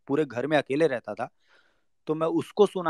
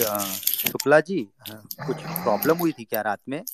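put-on girl on the phone; 3 semitones lower than usual. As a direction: lightly voice the girl, unsure and careful. Girl calls next morning. (लड़की की हल्की सी धीमी झिझकती आवाज़)

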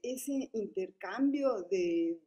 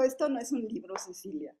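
mocking smoker's voice; faster than usual. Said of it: "se rió y se burló y dijo".

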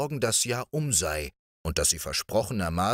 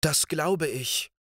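assuring princess; 8 semitones higher, slower than usual. A narrator's reading. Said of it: "versicherte die Prinzessin".

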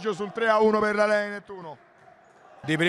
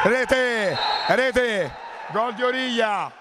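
shouted goal call, higher pitch; breathless italian goal commentary; 3 semitones higher, much slower than usual. Real, not acted. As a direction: yell the goal as it happens. Equaliser goal in live match.

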